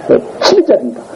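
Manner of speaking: usual speaking voice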